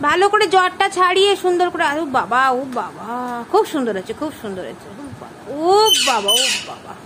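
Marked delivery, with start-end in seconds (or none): 2.0-6.9 admiring coo. Real, not acted. Adult admiring the child's hair combing, low coo.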